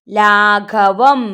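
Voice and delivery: ലാഘവം very slowly, syllable by syllable; slow model reading of ലാഘവം; reading demonstration. Shown as a demonstration. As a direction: stretch out each syllable of ലാഘവം. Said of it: "എന്താ വായിക്കുക?".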